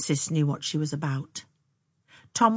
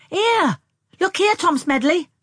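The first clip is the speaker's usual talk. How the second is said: high, loud excited call; breaking in; 13 semitones higher, 9 dB louder than usual. A narrator's reading. Sister interrupting the pair to show Tom something, breaking in. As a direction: cut in loudly for his attention. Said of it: "broke in Anne".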